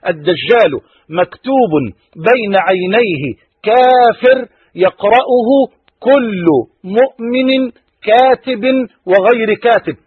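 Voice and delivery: each word of the hadith spaced out and weighty; slow recitation. Acted. Preacher reciting hadith to the congregation, slow and weighty.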